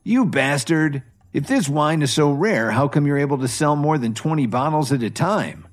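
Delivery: furious outburst. Acted. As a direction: lash out at the manager. Drunk guest insults the manager.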